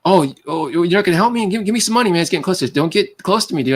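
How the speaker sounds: half-hearted hostile pestering; mock aggressive beggar. Stranger at the bus station hassling him for money, mock aggressive. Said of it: "He's just being aggressive".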